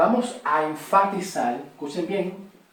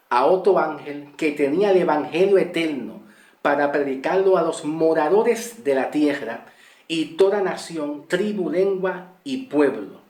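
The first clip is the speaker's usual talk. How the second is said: scripture reading. Acted. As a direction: read the passage out to the congregation. Reads scripture aloud.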